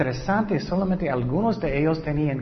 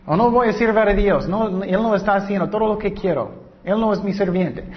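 mock defiant believer; 5 semitones higher than usual. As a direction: play a spoiled believer huffing at God. Voicing a believer refusing to serve God.

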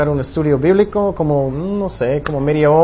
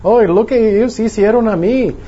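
mock aggrieved complaint, slightly raised; acted bitterness; 4 semitones higher than usual. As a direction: play someone nursing a grudge. (queja amarga fingida)

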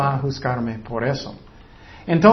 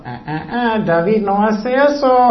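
higher, teasing tut-tut reprimand; God gently scolding; 4 semitones higher than usual. Acted. God correcting David inside his heart, playful scolding. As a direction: playfully chide a believer caught out. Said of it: "vas a sentir Dios diciendo".

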